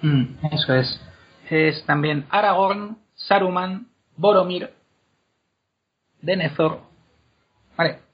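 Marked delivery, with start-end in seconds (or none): 2.3-4.7 "Aragorn, Saruman, Boromir", each stressed on its first syllable; antepenultimate stress. Shown as a demonstration. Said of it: "en la tercera". 6.2-6.8 "Denethor" stressed on DE; antepenultimate stress. Shown as a demonstration. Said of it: "en la tercera".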